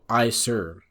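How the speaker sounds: unexcited, level "aye, sir" at talking volume; reply without raising your voice at all; monotone. Retold or imitated. Recruit answering a drill instructor without screaming, monotone. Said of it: "this was very monotone, like, it wasn't screaming at all".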